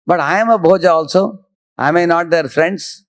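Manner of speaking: a hint of a worried minister asking; questioning Akrura. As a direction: raise the pitch as if putting a puzzled objection. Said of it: "Akrura is asking a question".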